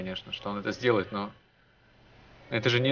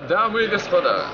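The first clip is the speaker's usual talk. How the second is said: flight attendant; 9 semitones higher, 6 dB louder than usual. Pretend. Joking in-flight announcement while flying.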